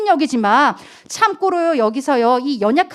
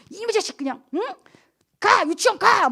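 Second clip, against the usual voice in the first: high, sharp order to go; mock angry yell; 8 semitones higher than usual. Mother yelling at her child to go to kindergarten, high. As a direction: shove the kid out the door.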